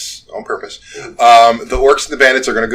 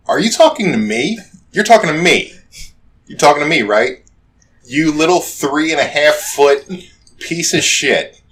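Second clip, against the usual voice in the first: orc; 5 semitones higher, 4 dB louder than usual. Acted. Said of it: "to which the orc goes".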